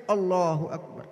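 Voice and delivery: measured prayer voice; devout prayer. Retold or imitated. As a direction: imitate a devout worshipper opening prayer. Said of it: "Saya pernah melihat orang solat di Mesir".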